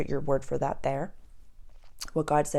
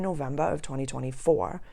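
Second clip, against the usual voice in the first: brief unintended accent slip on "November of twenty twenty-four". Real, not acted. Host reading out her workbook date, accidental accent slip. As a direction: let the accent slip on the month and year. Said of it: "I don't know why my accent just did that".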